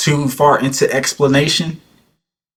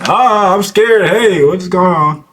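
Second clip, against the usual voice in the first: high, slow mock fright; hammed-up scaredy-cat, drawn out; mock scared voice; 8 semitones higher, much slower than usual. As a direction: imitate a timid guy with a light voice. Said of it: "It's your light-ass voice".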